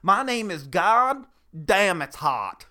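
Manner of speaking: hammed-up American accent; fake American accent. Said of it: "an American accent".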